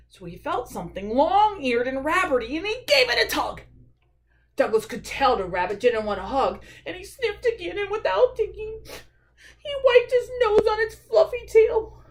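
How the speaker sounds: lively storytime reading; animated story narration. A narrator's reading. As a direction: tell the mishap to young listeners. Reads a picture book aloud.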